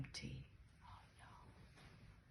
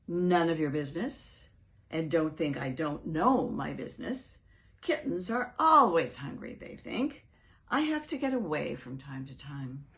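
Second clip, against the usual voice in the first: louder, huffy reply; defensive retort; 5 dB louder than usual. Acted. Cat telling the dog to mind his business, huffy. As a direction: brush him off sharply.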